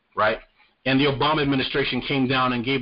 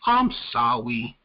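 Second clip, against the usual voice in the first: mock apology; 2 semitones lower, much slower than usual. Mocking the polluters' empty apology, slow and sneering. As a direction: sneer out a hollow sorry. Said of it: "be like".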